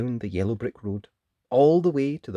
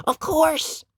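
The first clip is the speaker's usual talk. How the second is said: put-on little girl voice; 3 dB louder than usual. Dot reassures lion.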